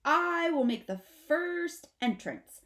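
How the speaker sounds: put-on young possum shouting bravely to his mother; bold shout. A narrator's reading. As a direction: announce it like a cocky actor. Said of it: "shouts out".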